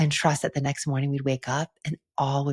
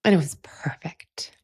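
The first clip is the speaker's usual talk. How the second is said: tearful, breaking into a whisper; overcome, barely getting the words out; choked up; 2 semitones higher, 4 dB louder, slower than usual. Real, not acted. Retreat leader recalling the perfect opening circle, choked up whisper. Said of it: "And I'm gonna get emotional".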